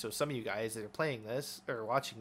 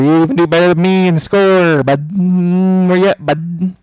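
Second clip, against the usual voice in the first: loud, jeering taunt shouted out; mocking shout; 6 semitones higher, 24 dB louder than usual. Real, not acted. Gamer shouting jeers at the opponent, loud mocking taunt. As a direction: holler to goad the other player.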